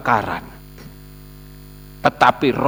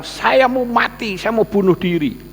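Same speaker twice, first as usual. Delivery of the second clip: despairing woman; 7 semitones higher than usual. Retold or imitated.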